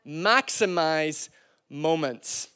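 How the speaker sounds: slow and soft, each word weighted; drawn-out quiet echo of the point; slow emphatic repeat. Shown as a demonstration. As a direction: let the phrase sink in slowly. Preacher repeats key phrase.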